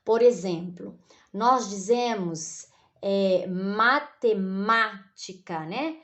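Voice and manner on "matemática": "matemática" devagar, sílabas separadas, MÁ mais forte; ênfase na sílaba tônica. Shown as a demonstration. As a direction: say "matemática" slowly, syllable by syllable, leaning on MÁ. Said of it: "com mais força". ("matemática" pausado, com força no MÁ)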